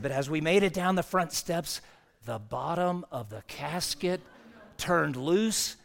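put-on gentlemanly Southern accent, slowing for the mishap; Jerry. Funeral director describing the casket mishap, gentlemanly Southern accent. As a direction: lightly imitate a courtly Southern storyteller. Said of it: "in a sweet and Southern, you know, gentlemanly way".

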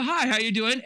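muffled behind a hand; hand over mouth. Shown as a demonstration. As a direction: speak through your palm, muffled. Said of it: "Put your hand over your, your mouth and go".

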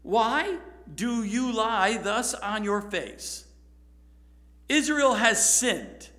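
slow, weighty, stern rebuke; slow stern God. Acted. God to Joshua on his face, slow stern rebuke. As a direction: lay each word down like a verdict from above.

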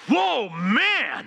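Adam wakes and gasps at his new bride; amazed Adam. Retold or imitated. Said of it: "he wakes up and he goes".

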